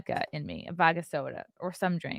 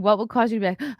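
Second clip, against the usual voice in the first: ordinary talk, nothing marked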